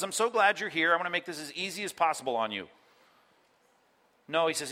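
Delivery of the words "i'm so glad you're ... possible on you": mock welcoming. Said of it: "he turns to them and says".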